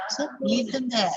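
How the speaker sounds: "them" reduced, unstressed; weak them. Shown as a demonstration. Teacher modelling weak "them". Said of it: "So here them is a weak form".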